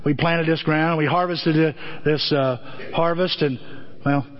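lightly imitating Jimmy Stewart saying grace. Father praying at the dinner table, a lightly voiced Jimmy Stewart. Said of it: "in that Jimmy Stewart voice".

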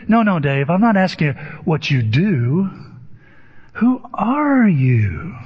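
lightly imitated insistence, slowing on the question; probing therapist. Therapist corrects Dave's answer about his job, lightly imitated pressing.

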